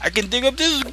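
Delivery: high, slow gleeful prospector; miner voice. Acted. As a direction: drawl it out like a greedy old miner. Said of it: "That was good, though".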